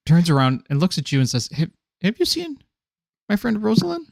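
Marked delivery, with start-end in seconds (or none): 1.5-4.1 high worried voice. Acted. GM voices confused NPC.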